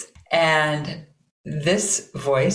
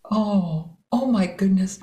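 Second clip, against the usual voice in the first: sympathetic sigh; 4 semitones higher than usual. Shown as a demonstration. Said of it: "they'll make this sound".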